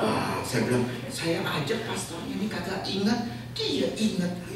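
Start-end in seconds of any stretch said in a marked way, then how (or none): 1.1-4.4 mock amazement. Pastor's retold self-deprecating remark.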